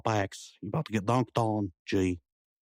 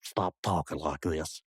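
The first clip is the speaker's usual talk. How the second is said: slowed, lower delivery; slow, reluctant concession; 4 semitones lower, slower than usual. Acted. Slang talker considers giving up his act, slowing right down. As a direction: draw it out as you concede.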